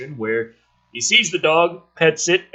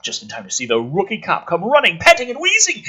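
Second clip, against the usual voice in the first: reading a screenplay aloud, a touch dramatic; lightly dramatic screenplay read; script reading. Acted. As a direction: read the scene headings and action like a narrator.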